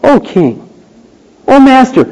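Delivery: honour him gently; respectful. Pretend. Esther addressing the king, gently respectful. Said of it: "with that respectful attitude".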